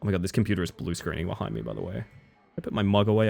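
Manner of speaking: ordinary delivery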